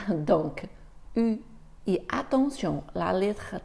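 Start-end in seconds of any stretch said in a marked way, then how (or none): 1.2-1.4 U with rounded lips and the tongue forward; U, rounded and fronted, as the model; French u. Shown as a demonstration. Teacher repeats the French U for the learner. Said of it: "tu dois faire comme si tu faisais ou".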